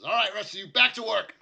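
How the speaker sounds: foreman's loud, high shout to the crew; shouted order. Acted. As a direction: call out over the whole work site. Boss orders crew back to work.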